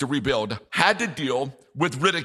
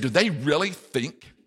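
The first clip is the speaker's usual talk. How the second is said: high scornful questions; sneering incredulous taunt; mocking disbelief; 4 semitones higher than usual. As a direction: ridicule them as the mocking enemy. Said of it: "In effect, he was saying".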